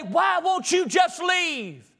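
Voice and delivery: slow, high, shouted plea; angry outburst. Retold or imitated. Preacher venting at empty churches, a slow high shout. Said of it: "And I get so mad".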